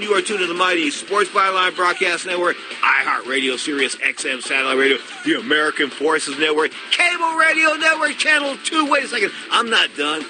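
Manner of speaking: booming station ID; radio announcer read. Acted. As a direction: announce the network list.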